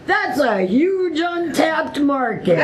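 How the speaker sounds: gleeful, amused imitation; laughing. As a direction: laugh while quoting his big pitch. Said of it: "He's like".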